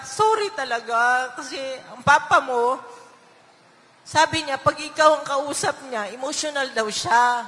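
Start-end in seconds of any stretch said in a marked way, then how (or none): 0.1-2.8 retold tearful apology. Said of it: "umiyak na ako".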